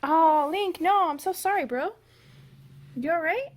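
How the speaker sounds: loud, high sorry to the pet; apologetic to dog. Real, not acted. Owner apologizing to dog Link, loud high. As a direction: fuss over the hurt dog.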